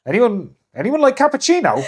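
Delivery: high, loud laughing call; high laughing call to the table. Retold or imitated. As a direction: call to the silent room while laughing. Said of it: "I'd stand up and I go".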